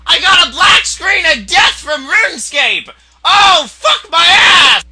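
loud, high, drawn-out howls; full-volume gamer rage; anguished screaming. Real, not acted. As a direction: howl in disbelief at a sudden loss. Dies to a black screen.

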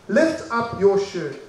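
drawn-out retold teacher's order; slow, deliberate repeat. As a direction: repeat it slowly, word by word. Teacher repeats the request more deliberately.

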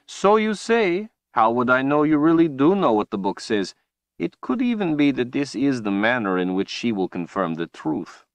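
a taunting sorcerer pressing his point. Acted. Villain Rahl, higher.

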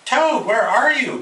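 high, slow call into the dark; Frog calling. A narrator's reading. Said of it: "called Frog".

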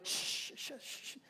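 whispered hushing, very soft; shushing. Retold or imitated. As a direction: hush him down with a breathy shh. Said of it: "They dog whispered him".

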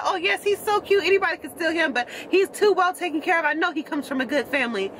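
caller's voice. Retold or imitated. Retelling the stranger who called about her dog, high polite voice. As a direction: lift way up into the caller's sweet phone voice.

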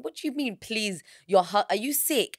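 incredulous high questions, mock outrage; retold disbelief. Telling friends how she reacted, incredulous. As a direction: replay her shocked reaction.

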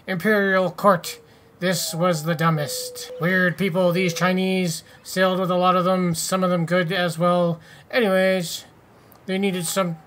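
faint pirate voice slipping away; an old sailor's tale, only lightly voiced; bad pirate voice. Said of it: "I'm gonna stop that voice".

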